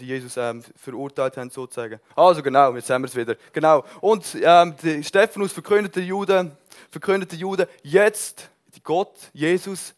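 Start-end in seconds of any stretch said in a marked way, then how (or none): 2.2-3.8 excited shout. Real, not acted. 4.0-9.9 high, loud preaching cry; loud proclamation. Acted. Preacher proclaiming Stephanus' message loudly.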